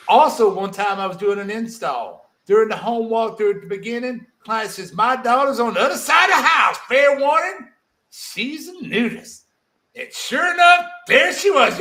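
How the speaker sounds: hammed-up Southern drawl, high and loud; a deliberately terrible Southern accent, yelling it out; bad Southern accent. Reading the story in an awful Southern accent, hammed up and loud. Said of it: "an even shittier Southern accent".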